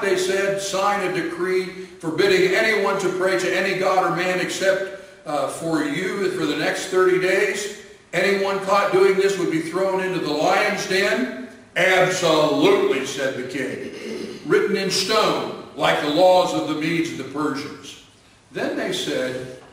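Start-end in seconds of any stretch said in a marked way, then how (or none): 0.6-11.5 accusing courtiers. Acted. Conspirators confront the king. 11.8-13.1 loud, emphatic yes; the king booms his certainty; proud king. Acted. King to the conspirators, loud and sure. 14.5-18.0 louder, firm royal voice; proud king. Acted. King to the conspirators, firm and loud.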